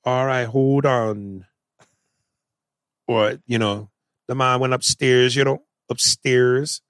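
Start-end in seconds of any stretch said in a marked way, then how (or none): 0.1-1.5 put-on botched Jamaican accent, dragged out slowly; mock a drawn-out, failed Jamaican accent; Denzel. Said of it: "Denzel would go". 4.3-6.8 attempted Jamaican accent, as a model. Shown as a demonstration. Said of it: "when they say".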